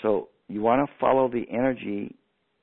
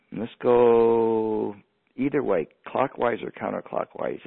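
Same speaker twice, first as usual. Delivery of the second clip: guided meditation. Acted. Radio host guiding listeners through a breathing activation, gentle meditation voice.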